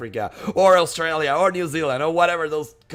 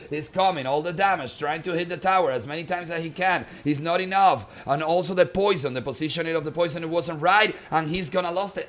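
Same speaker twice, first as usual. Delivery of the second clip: urgent live match commentary; live play-by-play; 4 semitones higher than usual. Real, not acted. Caster calls the last push on the tower, urgent play-by-play. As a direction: call the closing attack as it happens.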